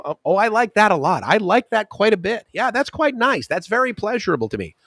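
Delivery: high, prissy wordy reply; mock English fuss. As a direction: ham up fussy English. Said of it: "you know".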